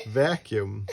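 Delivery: said through a laugh. Real, not acted. Parent laughing while reading to the child. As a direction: laugh as you say it.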